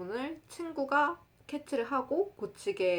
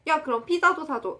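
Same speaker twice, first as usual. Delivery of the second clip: higher-pitched imitation of a demanding friend; 조르는 친구 흉내; 7 semitones higher, 6 dB louder than usual. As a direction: call out a sudden pushy request. 친구가 더 조르는 흉내. (친구가 갑자기 조르듯 높게)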